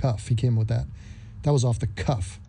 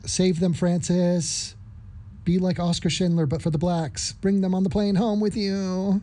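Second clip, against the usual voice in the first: put-on failed Scottish accent; 5 semitones higher than usual. Urging Francis on in a failed Scottish accent. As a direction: urge him on in a bad Scottish accent. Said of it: "I tried a Scottish accent".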